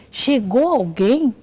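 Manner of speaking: high, stretched-out imitated call; retold projected question; calling out loudly.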